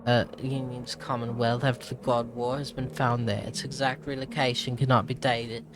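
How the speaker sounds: put-on British accent, reading aloud. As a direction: narrate as a British explorer. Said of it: "keeping up a British accent".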